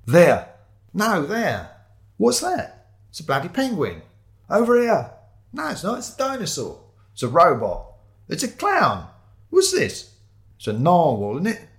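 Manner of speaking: high, excited shouts; police shouting. Acted. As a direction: shout it across the warehouse. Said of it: "Shouts echoed from the walls".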